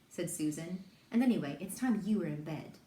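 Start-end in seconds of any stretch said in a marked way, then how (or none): 1.1-2.8 loud sibling squabble; bickering. Acted. Children argue over bedtime, bickering loudly. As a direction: push it out louder, needling each other.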